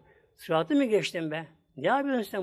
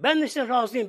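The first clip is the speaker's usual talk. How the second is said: higher, mildly raised exclamation; retold cry; 4 semitones higher, 3 dB louder than usual. Dreamer answers and wakes himself, a retold cry. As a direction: cry it out in imitation, short of shouting. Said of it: "Bir bağırıyor, uyanıyor".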